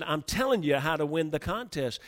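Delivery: mildly heated insistence; retold anger. Team leader pushing his advice, mildly angry. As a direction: imitate a frustrated, angry leader. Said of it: "he got angry".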